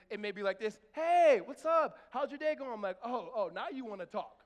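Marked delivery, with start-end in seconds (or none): 0.9-1.4 loud, high, exuberant hey; lunch-break greeting. Retold or imitated. Wife on lunch break greeting husband, exuberant. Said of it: "she happens to be on a lunch break". 1.4-2.7 loud, high, gushing imitation; lunch-break chattiness. Wife on lunch break calling out to husband, exuberant. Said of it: "she happens to be on a lunch break". 3.0-4.4 raised, teasing comeback; mock indignation. Husband to suddenly talkative wife, mock indignant.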